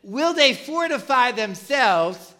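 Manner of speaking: acted-out sarcastic taunt. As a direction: drag it out with mock doubt. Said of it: "comes out with sarcasm".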